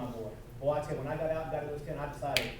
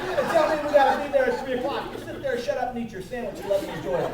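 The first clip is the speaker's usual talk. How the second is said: high and loud, laughing through the words; louder, higher playful dad rebuke; laughing mock scold; 11 semitones higher, 12 dB louder than usual. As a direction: tease your son while cracking up.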